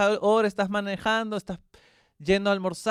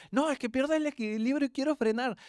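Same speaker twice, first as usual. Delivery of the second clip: put-on child's voice; 8 semitones higher than usual. Son explaining on the bicycle.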